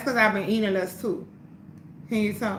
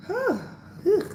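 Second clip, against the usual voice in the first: mock possessed; 9 semitones higher than usual.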